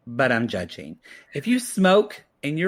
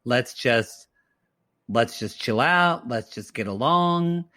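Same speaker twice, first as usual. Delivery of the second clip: imitated peacemaker; 3 semitones lower, slower than usual. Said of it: "He was kinda like".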